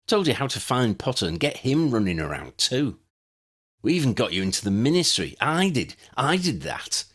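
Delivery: lightly voiced young villain, smug and boastful; a hint of a proud schemer revealing his plan; Granville, gloating.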